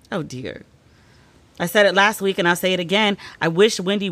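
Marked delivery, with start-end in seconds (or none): 0.1-0.6 soft dismay. Real, not acted. Reacting to Wendy's illness news.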